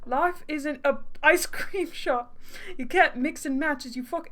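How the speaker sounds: exasperated fake British accent; hammed-up British accent, fed up; bad British accent. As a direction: scold in a dodgy British accent. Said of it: "he deserves a really bad accent".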